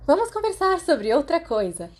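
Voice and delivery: Lily loudly changing the subject. A narrator's reading. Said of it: "Lily disse em voz alta". (em voz alta, interrompendo)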